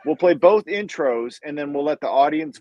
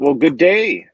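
louder, lightly attempted Australian greeting; attempted Australian accent; 2 semitones lower, 5 dB louder, slower than usual. Greeting Sonny, now an Australian, attempted Australian accent. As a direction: try an Aussie g'day, not quite convincingly. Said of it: "supposed to be an Australian good day".

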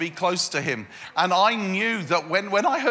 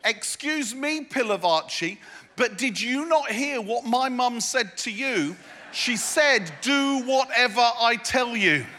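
mock Jesus reply. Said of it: "he would have said to me".

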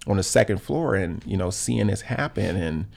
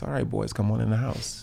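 put-on softer, calm, matter-of-fact call to the boys; calm mom; 5 dB quieter than usual. Mom calmly calling the boys in during a shooting, softly. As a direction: keep it easy and unbothered, like it's routine. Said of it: "she very calmly said".

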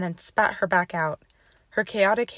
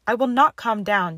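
louder, higher agitated protest; scared refusal; 4 semitones higher, 7 dB louder than usual. A narrator's reading. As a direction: refuse in rising panic. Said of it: "her voice quaking and scared".

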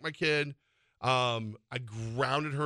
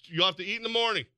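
mock-stern parent, pitched up; fear of God voice; 6 semitones higher than usual. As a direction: scold like a parent, half in jest. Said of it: "Fear of God voice, man".

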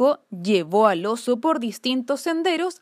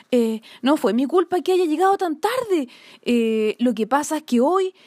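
timid rabbit; 2 semitones higher than usual. Acted. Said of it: "tímidamente comenzó a hablar".

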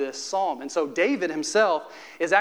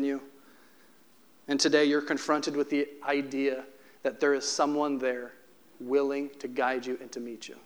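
tender pastoral voice; 4 semitones lower than usual. Acted. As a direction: lay it down gently, like a hand on a shoulder. Preacher softens to comfort.

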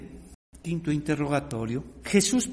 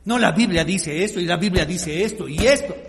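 louder, mock insistence on la Biblia dice esto; mocking religious leaders; 4 dB louder than usual. Preacher imitating religious leaders quoting scripture, loud and rote. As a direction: hammer out the leaders' rote reply. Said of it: "Esos son los líderes religiosos".

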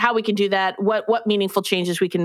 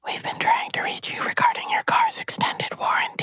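robocall; 3 dB quieter than usual. Pretend. Mock robocall in ASMR whisper.

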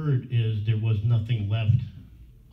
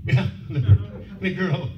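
laughing through the words; 8 semitones higher, 4 dB louder, slower than usual. Real, not acted. Amused, telling friends about the producer, laughing. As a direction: giggle while naming her.

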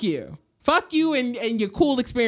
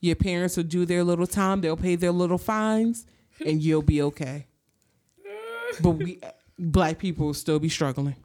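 Gam's calm reply; 5 semitones lower than usual. Retold or imitated. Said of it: "Gam basically hit her with the".

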